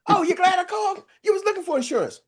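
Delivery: picture the dream call going perfectly; delighted surprise. Pretend. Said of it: "if they would have been like".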